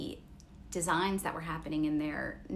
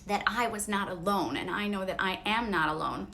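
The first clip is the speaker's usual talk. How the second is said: teary. Real, not acted. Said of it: "Sorry, I am teary".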